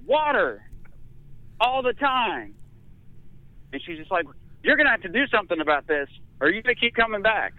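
high lightly voiced stern nurse; a hint of a scolding nurse; lecturing nurse.

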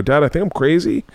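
lightly voiced anxious kid confiding in dad; worried child. Acting himself as a frightened child.

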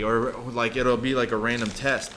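talking while chewing; words around a mouthful of food; mouth full. Real, not acted. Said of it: "Sorry, I'm eating".

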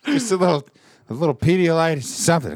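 printer voice. Retold or imitated. Voicing exhausted printer.

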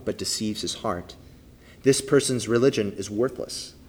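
measured, solemn Bible reading; formal reading of scripture. Acted. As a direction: read the passage aloud to the congregation. Reads James 1 aloud.

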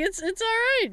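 high-pitched imitation of soothing; retold reassurance. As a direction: reassure a crying friend on a high note. Retells comforting crying friend.

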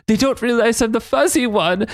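Kurt mock voice. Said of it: "she's like".

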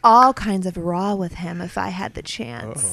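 loud, outraged troll voice; online troll. Acted. Co-host reads Pistolo's comment aloud, loud hammed-up outrage. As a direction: declaim it like an indignant internet commenter, drawing out phrases. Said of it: "in the way we think the online troll would sound".

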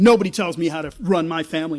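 loud, fast, bullying snap of a retold father; abusive father's outburst. Retelling the abusive father Frank shutting down Uncle Sam, loud and fast. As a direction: throw it out like a man who won't be told. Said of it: "in a typical abuser fashion".

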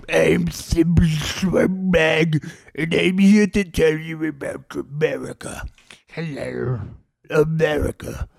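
put-on odd old poet voice; Thimble Swampbag. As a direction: recite like an eccentric guest poet. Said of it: "his name is Thimble Swampbag".

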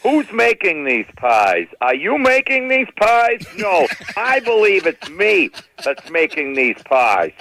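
slow self-questioning mother; mother interviewing herself. Retold or imitated. Irish Catholic mother quizzing herself, slow and mock-formal. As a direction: ask and answer herself slowly. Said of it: "she'd interview herself".

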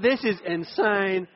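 slow, laughing through it; laughing disbelief. Retold or imitated. Preacher retells seeing the Wiggles, laughing slowly. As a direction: laugh at the absurd sign.

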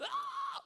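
sudden high inner shriek; a panicked yelp inside; inner scream. Retold or imitated. Nervous seller screams inwardly before praying. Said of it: "på insidan så här".

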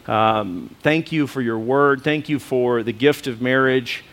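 low, earnest prayer. Acted. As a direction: pray it humbly, unhurried. Pastor prays aloud.

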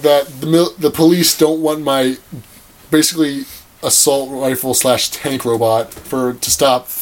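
put-on slow, half-hearted Australian accent; mock Australian accent. Host voicing the villain's complaint about police, mock Australian accent. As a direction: grumble as an angry character, lightly Australian. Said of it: "This is my Australian accent".

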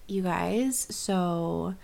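lightly imitated reality-star voice; a hint of celebrity impression; Kim Kardashian. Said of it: "Kim K talks like".

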